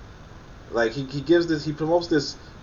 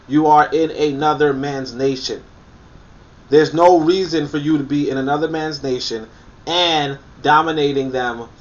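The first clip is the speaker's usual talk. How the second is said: emphatic; 3 semitones higher, 5 dB louder than usual. Real, not acted. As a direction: drive each word home to the viewers. Lecturing hard on a point.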